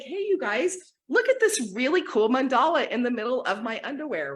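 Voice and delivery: high-pitched mock enthusiasm; mock showing off. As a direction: pretend to proudly call everyone over. Imagined showing off of underwear.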